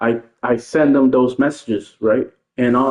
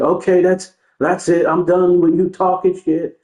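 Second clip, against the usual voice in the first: higher, put-on voice of a sore loser; mock huffy quitter; 6 semitones higher than usual. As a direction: imitate him storming off. Imitating quitting opponent.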